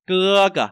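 high loud cưa, light cờ; stress on cưa. Shown as a demonstration. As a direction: lean on cưa, drop cờ. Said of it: "Trọng âm ra vào cái từ này". (nhấn cưa, lướt cờ)

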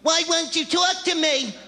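put-on high, whining girlfriend voice with a laugh in it; nagging girlfriend impression, high; whiny girlfriend. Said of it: "They're there afterwards going".

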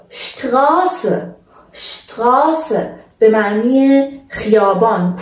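شتراسه with a long drawn-out a; German شتراسه said slowly, "shtraa-se"; long stretched vowel. Shown as a demonstration. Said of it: "باید این آ به صورت کشیده".

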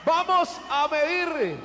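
ring announcer. Real, not acted. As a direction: announce the fighters with swelling hype. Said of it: "our veteran ring announcer".

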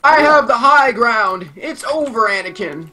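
lightly dramatised film-hero line, drawn out at first; film quote. Acted. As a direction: declare it slowly, then let it drop. Acted film quote, friend laughs at reference.

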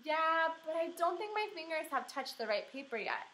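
a lightly voiced girl excusing her slowness; kid voice. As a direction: answer back like a stalling kindergartner. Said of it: "I said".

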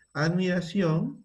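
slow, each syllable drawn out; spelled-out dictation pace. Shown as a demonstration. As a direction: dictate it slowly for the class to type. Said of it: "despacio, despacio".

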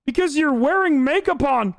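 put-on babyish creep character. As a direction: whine it like an overgrown baby. Acted absurd creep character.

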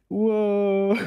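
high, drawn-out muffled-gamer "whoa"; long rising imitation "whoa"; imitated gamer whoa. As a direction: mimic a flatmate exclaiming over a game. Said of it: "I can hear the noise of Fortnite".

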